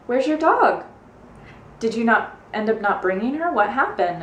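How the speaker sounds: high, lightly voiced puzzled question; puzzled co-teacher. Co-teacher asking where the dog went, puzzled high voice. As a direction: ask it like a surprised colleague. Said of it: "my co-teacher's like".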